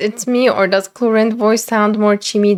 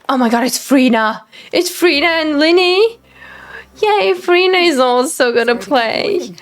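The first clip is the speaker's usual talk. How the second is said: higher, bubbling fan excitement; excited fan; 6 semitones higher than usual. Real, not acted. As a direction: gush over favourite characters. Fan sees favourite characters join.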